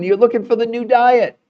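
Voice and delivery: ordinary talk, nothing marked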